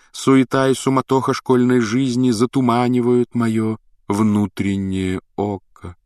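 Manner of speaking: высокий мистический голос, медленно к концу; таинственно, нараспев, как провидица; загадочная прорицательница. Acted. Голос Трелони на уроке. (высокий загадочный голос прорицательницы)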